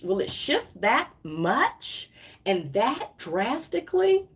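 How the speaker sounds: rising, questioning stress on each key word; wondering, pitch swooping up; incredulous question. Retold or imitated. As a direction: ask it in disbelief, word by word. Retells own incredulous question.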